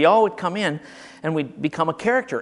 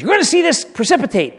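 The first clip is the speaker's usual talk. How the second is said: eager teacher; 10 semitones higher, 6 dB louder than usual. Retold or imitated. Teacher voiced.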